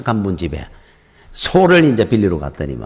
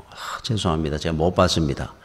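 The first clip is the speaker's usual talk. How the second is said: humble apology; 6 semitones lower, 5 dB quieter than usual. Retold or imitated. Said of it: "고개를 숙이고 사과를 하더라".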